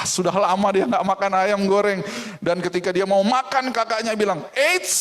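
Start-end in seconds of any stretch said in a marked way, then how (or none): 4.5-5.0 mock sister's call. Sister stops him again.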